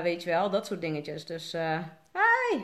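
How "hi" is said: excited greeting. Real, not acted. Waves to viewers joining live.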